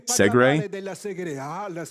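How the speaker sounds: high, disbelieving "Segre?"; shocked question at the name; incredulous. Real, not acted.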